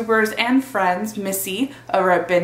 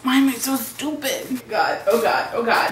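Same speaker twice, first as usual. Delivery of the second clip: scared horror game streamer; 3 semitones higher than usual. Acted. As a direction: freak out like something's chasing you. Panicked workout intro skit.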